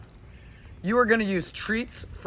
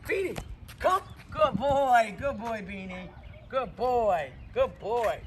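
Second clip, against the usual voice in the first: cheerful recall; 2 semitones higher, slower than usual. Real, not acted. Calling dog in training.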